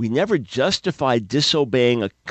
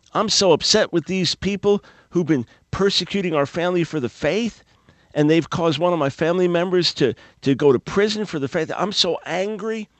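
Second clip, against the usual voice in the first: a hint of an aggrieved listener, pitched up; upset listener; 4 semitones higher than usual. Preacher voicing an angry hurt believer, lightly raised. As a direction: voice the hurt congregant's complaint. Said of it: "You say".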